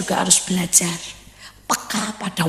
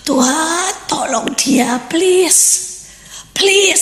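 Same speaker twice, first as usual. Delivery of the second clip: higher, rising plea to God; mock pleading "please" climbing higher; pleading prayer; 8 semitones higher, much slower than usual.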